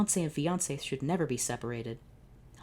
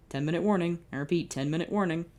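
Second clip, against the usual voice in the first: intercom announcement; 3 semitones higher than usual. Acted.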